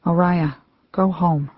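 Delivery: a gentle, mournful, understated plea. Acted. Grandmother's voice calling Oriah home, soft and sad. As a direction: let it fall softly, like a breeze. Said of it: "slower, sadder, and impossibly softer".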